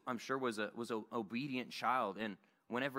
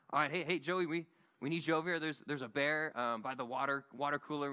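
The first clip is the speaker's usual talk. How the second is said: calling over the walkie. Retold or imitated. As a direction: hail Joey over the radio, fast and pressing. Calling Joe on walkie-talkie.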